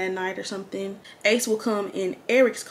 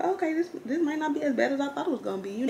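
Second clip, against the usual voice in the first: relieved hope; 6 semitones higher, faster than usual. Retold or imitated. Relieved inner thought retold.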